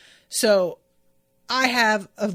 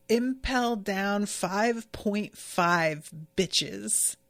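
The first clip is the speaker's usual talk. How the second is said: sassy reveal; much slower than usual. Retold or imitated.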